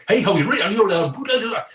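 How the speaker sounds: a mock-terrible Geordie accent, lively; hammed-up fake Geordie chatter; bad Geordie accent. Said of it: "he sounds nothing like a Geordie".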